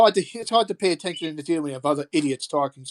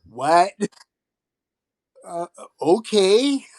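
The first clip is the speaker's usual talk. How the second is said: confused mock reaction; 3 semitones higher, 3 dB louder, much slower than usual. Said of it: "I think they're going".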